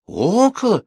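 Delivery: high, loud cries of guesswork; eager shouting. A narrator's reading. Village women shout guesses at the gossip, clamouring. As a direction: blurt it out over the others. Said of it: "Бабы наперебой закричали".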